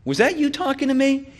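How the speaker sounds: lightly acted indignant challenge; mildly angry burglar. Burglar confronting a parrot in a joke, mildly angry. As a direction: question the parrot with mock anger. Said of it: "looks at the parrot angrily and he says".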